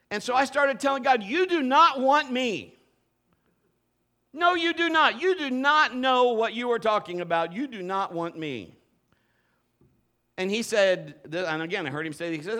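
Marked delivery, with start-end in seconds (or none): 1.2-8.8 retold insistent refusal, word by word; measured, insistent pleading with God; emphatic protest. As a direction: argue back firmly, spacing out the words.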